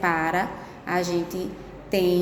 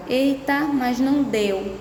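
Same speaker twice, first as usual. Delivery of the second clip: mock surprise; 5 semitones higher than usual. Teacher playing a pupil whose word won't fit, mock surprise. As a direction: play a pupil caught out at the margin. Teacher pretends writing, runs out.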